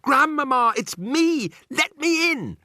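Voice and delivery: high, loud desperate call; shouting loudly. A narrator's reading. Boy shouting to grandmother through the door, loud. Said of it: "I shouted as loudly as I possibly could".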